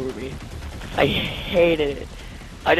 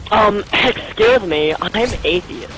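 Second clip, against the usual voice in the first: snooty; 2 semitones higher than usual. Retold or imitated. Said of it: "He has the nerve to".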